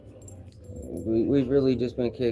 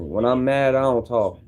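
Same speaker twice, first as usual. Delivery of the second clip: louder, pressed statement; firm declaration; 4 dB louder than usual. Shown as a demonstration. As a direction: lay it down hard. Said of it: "you would know if you watch me".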